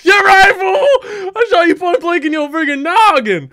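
high, loud gloating; triumphant yelling. Acted. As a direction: crow loudly over the win. Gloating after a shot.

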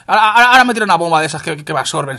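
loud, high, rapid-fire protest; protesta indignada. Real, not acted. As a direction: blurt it out fast and loud, outraged at the game. Indignado al caerle una bomba. (protesta indignada, a toda prisa y a voces)

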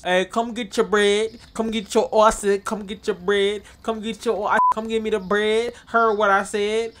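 calling out wares. Acted. Calling out to shoppers.

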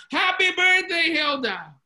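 high, loud, drawn-out crowd cheer; screamed surprise greeting. Retold or imitated. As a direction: shout it slowly like a whole party yelling surprise. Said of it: "they all scream out".

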